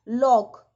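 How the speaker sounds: "लॉक" with a short open o; plain short o in "लॉक"; short O sound. Shown as a demonstration. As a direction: say "लॉक" loud and simply, short o. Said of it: "ओ का sound आया".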